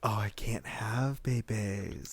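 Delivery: mock lament. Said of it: "It's like that".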